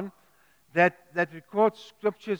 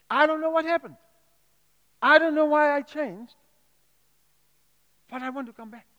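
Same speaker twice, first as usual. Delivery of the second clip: pleading prayer; 8 semitones higher than usual. Retold or imitated. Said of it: "maybe you can just say".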